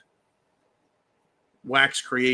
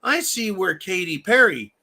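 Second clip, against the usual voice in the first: caller quote; 4 semitones higher, 5 dB louder than usual. Retold or imitated. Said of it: "Diving Frog says".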